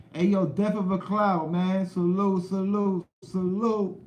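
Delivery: loud, high greeting to a viewer; hyped shout-out. Real, not acted. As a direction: call out the name like hyping a fan.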